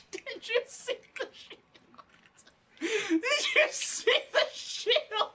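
very high, slow words wheezing through laughter; laughing hard. Real, not acted. Gamer crying with laughter over the shield. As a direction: barely get it out for laughing.

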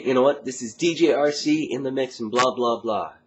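energetic dance radio DJ intro. Shown as a demonstration. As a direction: hype the mix like a club DJ. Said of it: "I use this voice".

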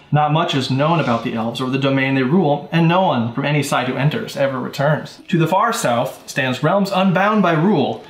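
measured storyteller scene setting; game master narration. Acted.

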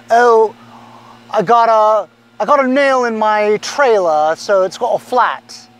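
mock British accent for a lame excuse. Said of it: "I just did a British accent".

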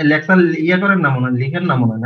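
choppy, breaking-up call audio; words cutting in and out; buffering stutter. Real, not acted. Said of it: "sir, একটু কেটে কেটে আসছে".

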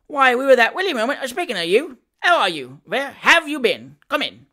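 loud, high-pitched hearty welcome; great glee. A narrator's reading. Sam welcomes Job into the kitchen, gleeful. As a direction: gush at the newcomer, dropping on the last invitation. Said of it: "rising with great glee".

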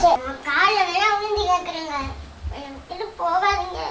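soft plea fading to very quiet; tearful pleading. Acted. Wife begging husband not to leave her, tearfully pleading. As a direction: beg softly, voice sinking away.

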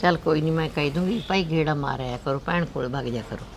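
low, soft motherly reassurance; gentle, hushed concession; soothing. Acted. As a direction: settle her down quietly, voice sinking. Mother soothing her upset daughter.

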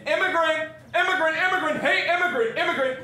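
high, loud jeering calls; shouted taunts. Retold or imitated. People hound him going to school, shouting. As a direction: holler it like kids across a schoolyard. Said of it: "people would be shouting".

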